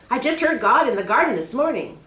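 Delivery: put-on a worried kid asking for help; young boy Peter. Boy asks the snake about the scroll, eager.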